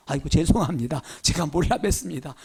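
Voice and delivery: lightly voiced sheepish wind; wind apologizing. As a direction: grovel like a scolded servant.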